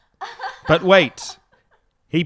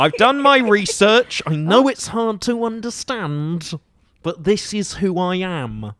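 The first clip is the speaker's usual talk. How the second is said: put-on British accent; 3 semitones higher than usual. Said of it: "you're doing really well at the accent".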